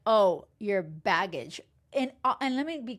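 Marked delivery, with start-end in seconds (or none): 0.1-1.6 lower, slow, scornful "Oh, your baggage"; mock disdain. To a single mom, slow scornful mock. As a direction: sneer the word baggage like a burden. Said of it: "Not like".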